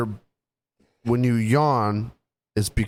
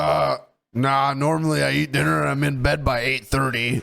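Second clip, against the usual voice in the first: mocking imitation; 3 semitones higher than usual. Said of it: "you're like".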